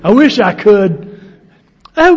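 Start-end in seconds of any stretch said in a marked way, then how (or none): 1.9-2.2 mock broad English lady; broad English accent. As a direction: put on a loud Englishwoman's accent. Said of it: "broad English accents that sounded put on".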